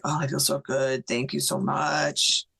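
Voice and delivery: slow, drawn-out moan of relief; imitated moaning. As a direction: lightly mimic a moaning, grateful husband.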